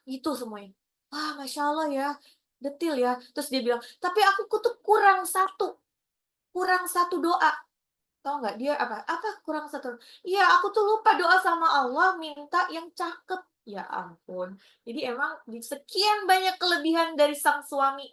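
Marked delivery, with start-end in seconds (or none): 4.0-7.5 wife's confession. Retold or imitated. Wife confessing the missing prayer. 10.2-13.4 naive wife. Retold or imitated. Wife's naive punchline.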